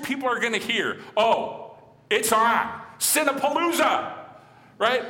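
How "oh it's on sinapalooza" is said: higher, gleeful mock excitement; mock gleeful sinner. Preacher mocks churchgoers who misread grace, gleeful and higher. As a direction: ham up a sinner cheering the free pass.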